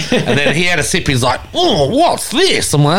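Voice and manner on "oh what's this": slow, high-pitched mock amazement; astonished. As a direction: imitate a stunned first taste, drawn out. Retold workmate surprised by the sip.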